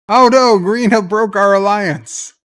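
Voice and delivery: loud, high "oh no" of sudden dismay; a real gasp of shock; shocked outcry. Real, not acted. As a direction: cry out as the alliance collapses. Alliance suddenly broken in game.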